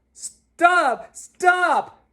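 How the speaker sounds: high, loud panicked yell. A narrator's reading. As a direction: yell it to make her stop. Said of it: "yelled Big Anthony".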